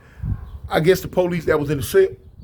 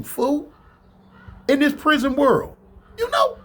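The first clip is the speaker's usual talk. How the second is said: heated rant; 5 semitones higher than usual. Retold or imitated. Rant about the little thief.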